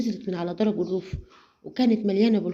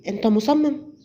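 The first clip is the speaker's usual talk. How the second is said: a touch higher and louder, mildly angry; angrier; 4 semitones higher, 4 dB louder than usual. Acted. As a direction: push back with rising annoyance. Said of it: "غضبت أكتر وردت عليه".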